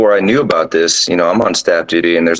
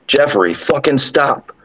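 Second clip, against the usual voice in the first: higher, slow offhand yell; nonchalant yell; 8 semitones higher, slower than usual. Retold or imitated. Female drill sergeant telling the ghost off, offhand yell. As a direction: tell the ghost off without caring. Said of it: "nonchalantly just yells".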